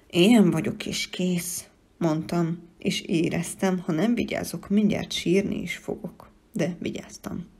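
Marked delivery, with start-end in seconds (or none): 0.1-1.7 slow, louder, dug-in defiance; stubborn sulky no. Acted. The child stubbornly refuses the creature, sulky and slow. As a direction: say it like a sulky child who won't budge. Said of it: "konok és durcás nemet mondasz".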